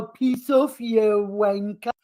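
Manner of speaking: exaggerated fake Aussie accent, drawn-out wanker; mock Aussie accent. Mocking Will's attempt at Aussie, mock Aussie accent. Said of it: "why do you do the whole".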